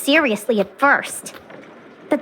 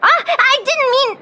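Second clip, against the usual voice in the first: flustered, laughing it off; nervous little laugh while backpedalling; embarrassed chuckle through the words; awkward laugh; 9 semitones higher than usual. Real, not acted. Flustered correction after misunderstanding.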